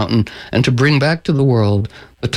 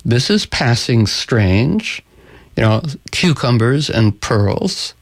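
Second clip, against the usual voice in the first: slow, lightly voiced Sultan; puzzled Sultan; 2 semitones lower, slower than usual. Storyteller voices the Sultan served cucumbers, slow and puzzled. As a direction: ponder it slowly, stretching the words. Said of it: "And the Sultan says".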